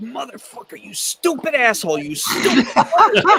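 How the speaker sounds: play-acted very high, shrill, loud, enraged scream. Retelling running down the hill after hurting your arm, retelling angry screaming at yourself. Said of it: "I'm running down there screaming".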